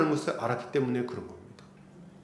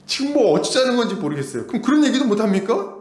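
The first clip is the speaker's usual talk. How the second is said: higher, louder exasperation; exasperated; 6 semitones higher, 5 dB louder than usual. Real, not acted. Pastor to congregation, exasperated and raised. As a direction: let the frustration out. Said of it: "pastor's exasperated retort".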